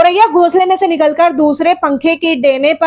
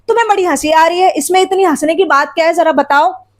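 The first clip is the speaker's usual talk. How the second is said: quick, mildly indignant challenge; mild retold anger. Father challenging mother for laughing at him, mild mock anger. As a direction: act out irritation lightly, hurrying the words. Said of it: "और ज्यादा गुस्सा आ गया".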